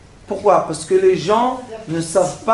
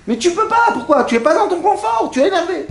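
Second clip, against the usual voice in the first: laughing mock outrage; 10 semitones higher, faster than usual. Real, not acted. Mocking irritated passenger.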